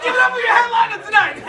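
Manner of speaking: loud, high hype-man call; mock club emcee intro; emcee announcement. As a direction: pump up the crowd like an emcee.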